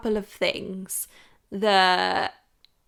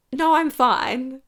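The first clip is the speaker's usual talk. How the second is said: loud, slow, incredulous no I'm fine, higher; exasperated; 4 semitones higher, 7 dB louder, much slower than usual. Retold or imitated. Woman on a date answers shopping offer, exasperated. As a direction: voice the outraged reply she kept inside.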